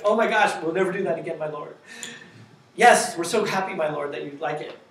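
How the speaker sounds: a touch of a grovelling servant saying my lord; bow and scrape to your master; servile apology. Retold or imitated. App grovelling to the user like a servant, mock servile. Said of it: "put my lord after every one of their sentences".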